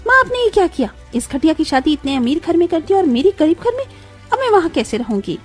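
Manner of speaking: high-pitched outraged daughter; shrieking protest. Acted. Daughter protesting her marriage into a poor house, shrieking. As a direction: wail at mother in acted outrage. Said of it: "आप चिल्ला क्यों रही हैं".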